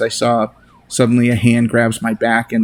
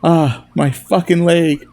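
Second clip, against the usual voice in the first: higher, slow cry of pain; pained yell; 6 semitones higher, slower than usual. Acted. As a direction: yell out from a hurt leg. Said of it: "I hear Jacob yell".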